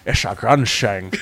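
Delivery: slow, lightly slurred Scottish Connery on Grunshang; Connery again. Pretend. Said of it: "Do it again".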